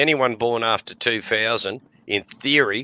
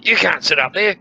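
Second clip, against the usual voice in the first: tag only; 8 semitones higher, 5 dB louder than usual. Retold or imitated. Cop ordering them down.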